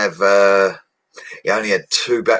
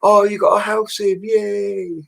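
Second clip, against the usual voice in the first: high squeaky gushing voice, much higher; mock excited locals; 12 semitones higher, slower than usual. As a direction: squeal it like a delighted neighbour. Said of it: "They're all messaging me on Facebook saying".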